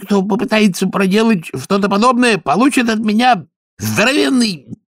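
a loud, high warning to the crowd; threatening. Acted. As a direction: lean in and menace them. Betty threatens the guards.

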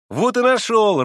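high, loud happy cry; joyful echo. A narrator's reading. Another boy echoing the news, joyful. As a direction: chime in with delight. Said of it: "радостно отозвался ещё кто-то".

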